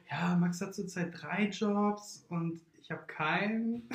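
laughing through the words. Real, not acted. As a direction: giggle while saying it. Laughing while telling.

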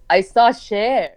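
put-on lightly accented Iranian English, pitch kept down; a hint of an Iranian mother's accent; Iranian mom's accent. Daughter correcting her impression of mom, light Iranian accent. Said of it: "She goes".

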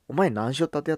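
the gruff Hakata way again, sounding like a threat; Hakata dialect. Retold or imitated. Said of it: "威嚇してるふうに聞こえると".

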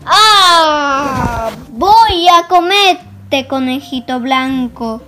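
big bad wolf roaring his threat; wolf's shout. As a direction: bellow it like a hungry wolf. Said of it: "y gritó".

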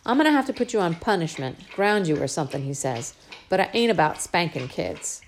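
lightly voiced scolding father; a hint of a gentle but firm dad; father scolding his spoiled little girl, lightly voiced; Daddy's voice. Father decides punishment.

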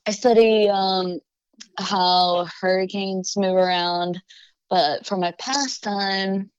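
careful, bright on-air intro read; formal self-introduction. Shown as a demonstration. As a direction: present yourself like a host opening a show. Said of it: "like, a short intro".

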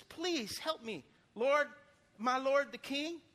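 slow, lightly voiced begging woman; pleading woman. Starving woman begs the king, mild pleading. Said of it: "a woman called him and says".

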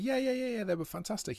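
high, overly eager yeahs; forced enthusiasm. Retold or imitated. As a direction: fake keen agreement to hide the shock. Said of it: "I was like".

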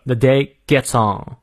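slow "the", th made with tongue between teeth. Shown as a demonstration. Teacher drilling th for learners, slow tongue-biting th in "the". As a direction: bite the tongue on the th of "the". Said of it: "咬舌".

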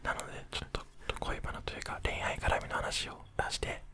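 ひそひそ声. Real, not acted. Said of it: "ひそひそ声で話をしていこう". (寝室でこっそり話すささやき声)

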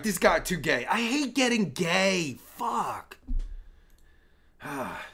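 normal talking voice

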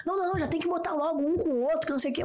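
pai apressado, voz mais alta; imitando o pai impaciente. Retold or imitated. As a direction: imite o pai que quer pular etapas. (pai impaciente mandando botar um com o outro, voz mais alta)

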